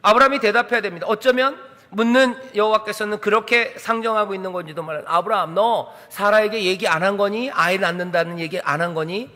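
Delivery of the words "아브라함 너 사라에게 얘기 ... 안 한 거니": gentle asking. Acted. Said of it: "묻고 있는 거예요".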